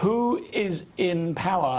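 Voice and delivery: slow, word-by-word "who is in power?"; emphatic question. Real, not acted. Interviewer presses Jacque for an answer, emphatic question.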